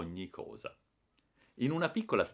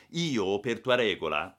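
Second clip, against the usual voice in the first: haughty; 3 semitones higher, 5 dB louder than usual. Acted. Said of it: "lo interruppi con alterezza".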